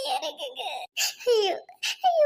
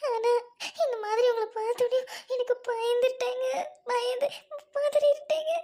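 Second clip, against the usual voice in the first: tearful, trembling confession; a wife crying to her husband that she panicked; shaken crying. Acted. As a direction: sob out that she was scared. Wife admits her fault, shaken.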